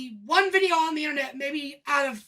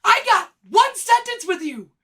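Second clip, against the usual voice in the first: sarcastic; 5 semitones higher, 6 dB louder than usual. Real, not acted. Sarcastic outburst about the manager.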